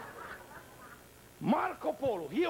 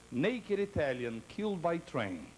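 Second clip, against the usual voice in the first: slow punchline; slower than usual. Acted. Punchline newspaper headline.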